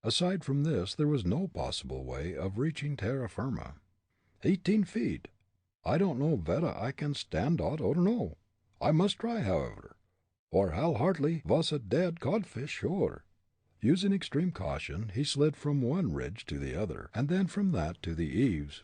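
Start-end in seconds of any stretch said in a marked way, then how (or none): 4.4-13.2 put-on high, startled German-accented voice; a comic German bracing himself. Fritz measuring the drop, in a German accent.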